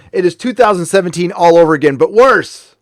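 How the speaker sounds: angry outburst. Real, not acted. Streamer rants to chat, rising angry outburst. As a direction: let the anger build to worse. Angry rant about the BBC.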